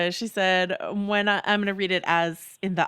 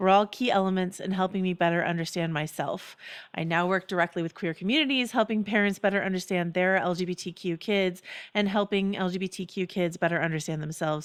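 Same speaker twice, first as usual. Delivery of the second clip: usual speaking voice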